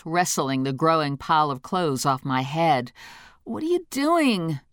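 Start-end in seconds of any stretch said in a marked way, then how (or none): 3.4-4.6 higher, lightly voiced female friend. Cookie character voice.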